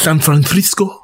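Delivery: mock Spanish-accented San Francisco; with flair. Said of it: "Why you say it with that flair".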